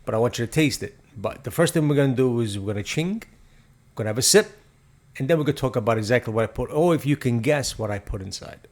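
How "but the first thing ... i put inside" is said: stiff, formal host voice; robotic. Real, not acted. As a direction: read it like a robot. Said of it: "You don't have to be so robotic".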